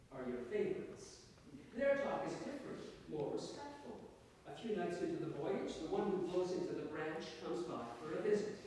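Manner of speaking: measured literary story reading, lilting in pitch; story narration. A narrator's reading. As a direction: read your short story to an audience. Reads own story to audience.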